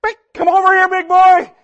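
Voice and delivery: high, loud hen call; hen turkey voice. Retold or imitated. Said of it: "I watch as I go".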